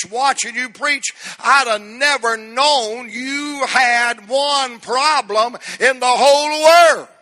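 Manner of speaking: retold amazement swelling to a loud finish; building amazement. Preacher retells his friend's amazement at his preaching, building amazement. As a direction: build steadily, then stretch out the last words loudly.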